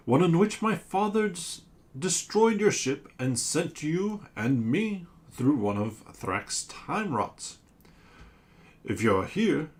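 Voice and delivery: a giant monster pleading its case; sea creature voice. Acted. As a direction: sea monster asking the crew for help.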